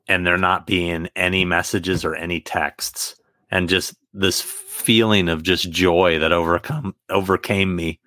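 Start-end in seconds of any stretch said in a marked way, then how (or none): 3.5-8.0 losing voice, hoarse. Real, not acted. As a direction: voice going hoarse. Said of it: "I'm losing my voice".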